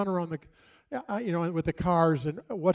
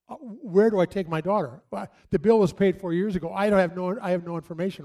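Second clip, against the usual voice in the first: a little louder, mildly flustered dad; mild panic; 4 dB louder than usual. Retold or imitated. Dad retelling not knowing where to take his daughter, mildly panicked. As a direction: retell being a bit freaked out. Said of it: "freaking out a little bit".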